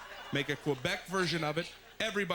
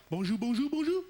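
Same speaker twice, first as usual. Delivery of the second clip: high, loud sing-song bonjour; hotel greeting; 5 semitones higher, 4 dB louder than usual. Retold or imitated. Hotel clerk greeting a guest, high sing-song. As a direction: greet cheerfully, rising higher.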